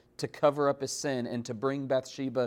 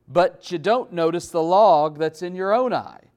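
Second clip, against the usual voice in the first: loud, ringing, high preacher's cry; preaching full force; 4 semitones higher, 8 dB louder than usual. Acted. Preacher to the congregation, quoting Jesus in a loud high cry. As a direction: thunder the rhetorical question out.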